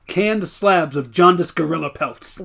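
slow mock recital; imitating Charlie Sheen. Quoting Charlie Sheen's webcam poem, slow mock recital. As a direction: recite it slowly like a strange poem. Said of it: "he just goes".

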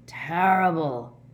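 slow, loud grunt. A narrator's reading. Big man reacts to sad song, grunting. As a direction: grunt it out, long and heavy. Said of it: "Hagrid grunted".

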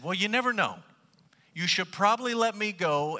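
lightly acted bargaining; coaxing mouse. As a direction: coax the lion in a light high voice.

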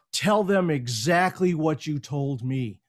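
slow, deliberate and earnest; serious. Retold or imitated. Vice president urging Don to repeat his pitch, slow and serious. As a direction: lay it out slowly like it matters. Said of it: "he says, all serious in his face".

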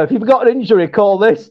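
fast, hammed-up advert patter; mock injury-lawyer ad. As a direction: rattle it off like a cheap TV ad. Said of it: "sound like one of them adverts".

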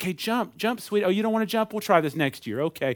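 gently coax, then give up fondly; doting mom. Retold or imitated. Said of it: "they're like".

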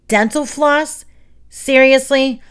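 high-pitched, scornful disbelief; incredulous. A narrator's reading. Roach stares at Emilio over his suggestion, incredulous.

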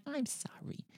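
unvoiced disbelieving whisper; hushed incredulous aside. Real, not acted. Incredulous aside about ages.

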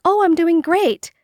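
high-pitched, upbeat small-talk answer; lightly acted cheerful response; cheery reply. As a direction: act out a chirpy pleasantry.

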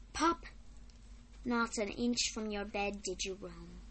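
measured, subdued verse recital; poem reading. Acted. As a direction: read it out gently with long pauses between phrases. Reads a poem aloud.

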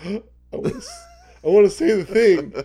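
high, eager mock plea; pleading urge. Man begging his wife to let him joke, high eager plea. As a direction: beg to be allowed to say it. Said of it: "I'm like".

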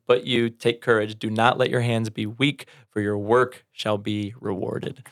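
slow, measured Bible reading; scripture reading. Acted. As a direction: read the verse slowly and solemnly. Reads scripture verse aloud.

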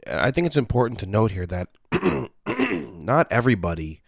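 talking between sips of coffee; words around a sip of hot coffee; while sipping a drink. Real, not acted. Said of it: "So I'm drinking, uh, coffee".

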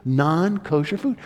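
softly voiced, gently coaxing offer; God. God telling Peter to eat, lightly acted soft command. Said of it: "God says".

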